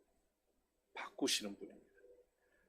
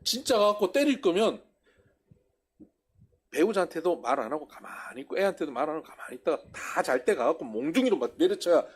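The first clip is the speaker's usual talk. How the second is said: ordinary talk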